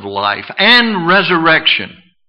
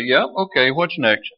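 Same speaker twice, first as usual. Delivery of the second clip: casual, offhand mock acceptance; unimpressed, moving right along; blasé; 5 dB quieter than usual. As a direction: shrug it off as ordinary. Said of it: "like they're ordinary".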